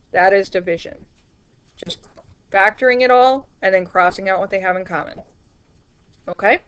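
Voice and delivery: talking while chewing. Real, not acted. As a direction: speak around a mouthful. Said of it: "Sorry again for chewing".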